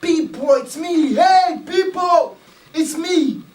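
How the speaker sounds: shouting down to the villagers. Retold or imitated. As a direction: call out desperately to be seen. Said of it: "shouting, screaming".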